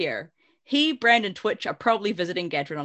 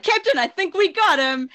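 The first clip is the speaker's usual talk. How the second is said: put-on high, loud, excited young officer; pitched-up, exclaiming character voice; Cathar officer's voice; 10 semitones higher, 7 dB louder than usual. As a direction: call it out high like an eager cartoon officer. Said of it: "that's the voice I gave her".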